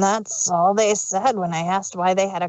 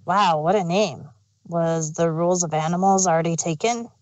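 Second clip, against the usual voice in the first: deadpan; 4 semitones lower than usual. Acted. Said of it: "He then went deadpan".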